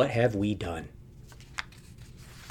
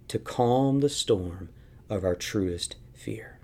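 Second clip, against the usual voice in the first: slow, softer and softer into a whisper; fading to a whisper; 2 semitones lower, 5 dB quieter, slower than usual. Real, not acted. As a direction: let it sink down to a hush. Sermon line fading to whisper.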